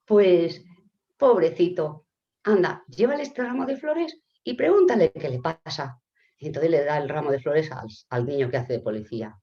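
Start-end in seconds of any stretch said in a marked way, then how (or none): 0.0-6.0 louder, emphatic kindly urging; console, then gently send them on; acted sympathy. Señor Romero sending flowers onward, emphatic acted sympathy. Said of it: "dice el señor Romero".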